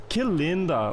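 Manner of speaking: "Que linda" with a melodic Brazilian lilt; Brazilian Portuguese melody. Shown as a demonstration. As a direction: let "Que linda" swing up and fall, Brazilian style. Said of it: "Brazil is more like".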